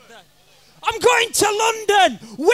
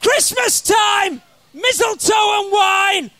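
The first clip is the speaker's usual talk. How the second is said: belted song parody; 5 dB louder than usual. Acted. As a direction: belt it out at the crowd.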